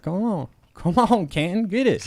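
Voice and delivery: high-pitched acted straining; hammed-up high goading; mock urging. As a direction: egg on a rival mid arm-wrestle. Acts out arm wrestling between mayors.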